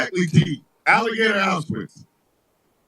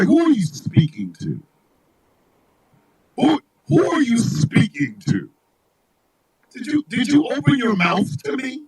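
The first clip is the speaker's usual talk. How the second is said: haughty disbelief; 2 semitones higher than usual. Acted. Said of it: "look at Mississippi every day going".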